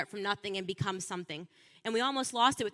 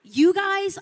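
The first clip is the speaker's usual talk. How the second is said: higher, scoffing disbelief at the Democrats; scornful retort; 4 semitones higher than usual. Retold or imitated. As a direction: sneer at them, incredulous. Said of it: "I just thought they were so pathetic".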